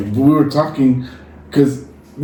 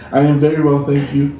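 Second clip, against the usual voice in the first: monotone reply; 2 semitones higher than usual. Retold or imitated. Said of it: "didn't have any variation too much in my voice".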